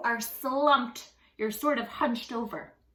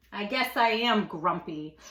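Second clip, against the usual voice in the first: sighing; 4 semitones lower than usual. Acted. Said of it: "Jim sighed".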